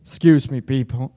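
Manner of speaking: cough-choked apology; coughing up water. Real, not acted. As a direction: clear throat, water went down wrong. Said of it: "how professional".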